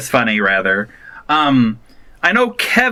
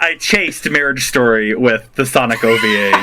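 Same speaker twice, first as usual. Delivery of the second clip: laughing; 3 semitones lower than usual. Real, not acted. Laughing admission.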